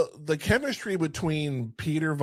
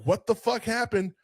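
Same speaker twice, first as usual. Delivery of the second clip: shocked; 8 semitones higher than usual. Retold or imitated. Ogre wife shocked.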